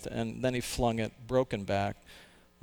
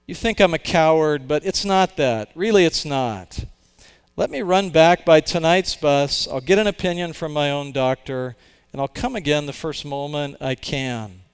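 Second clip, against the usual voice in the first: raised, louder voice of a frightened man; a man begging for time, louder and higher; pleading man; 3 semitones higher, 8 dB louder than usual. Acted. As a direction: plead anxiously, pushing the voice up. Man answers the angels.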